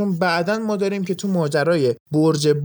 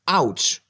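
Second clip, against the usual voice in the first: ouch of pain; 2 semitones lower, slower than usual. Shown as a demonstration. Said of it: "واسه درد".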